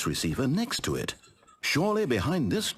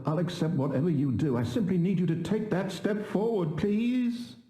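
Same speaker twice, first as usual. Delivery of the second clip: higher, worried begging; anxious pleading; 5 semitones higher than usual. Acted. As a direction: plead with rising panic. Narrator pleading, voice rising.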